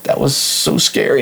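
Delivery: imitated fright. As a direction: imitate a spooked niece. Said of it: "looked at me real scared".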